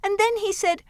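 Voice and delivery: measured storytelling verse; poem read aloud. Acted. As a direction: read it like a nursery rhyme.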